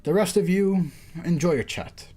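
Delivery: lightly performed game dialogue; acted story reading. Judge thanks the strangers, lightly acted story reading. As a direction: read the characters' lines clearly, a touch formal.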